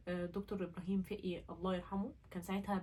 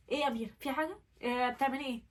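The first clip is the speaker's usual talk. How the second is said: lightly voiced worried child; slightly raised voice, like an anxious little girl; childlike sister; 3 semitones higher, 4 dB louder, faster than usual. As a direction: imitate a small child checking up on someone. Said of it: "كأنها طفلة".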